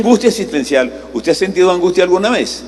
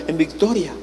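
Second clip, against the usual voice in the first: soft canned reply; 2 semitones higher, 6 dB quieter than usual. Retold or imitated. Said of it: "ella decía".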